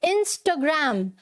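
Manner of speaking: "Instagram" slowly as in-stho-gram; corrected pronunciation. Shown as a demonstration. Teacher drills her class, "Instagram" said slowly as in-stho-gram. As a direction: round the middle A of "Instagram" into a short O. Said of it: "क्या बोलना है?".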